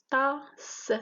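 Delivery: TASSE broken up as "ta - sse"; split into syllables. Shown as a demonstration. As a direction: say Tasse in two beats, the final s set apart. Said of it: "c'est deux syllabes". (Tasse découpé en syllabes, « ta - sse »)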